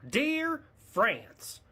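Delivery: slow, high, halting read; letter read aloud. Acted. Florida race fan writing to France, slow high letter voice. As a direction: read it out laboriously, word by word.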